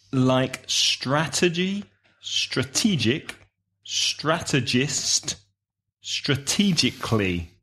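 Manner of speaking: each word said slowly and deliberately; slow listing for learners; careful word list. Shown as a demonstration. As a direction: spell out the sounds of strategy, strategic, strategist, strategically. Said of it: "the pronunciation is unbelievably difficult".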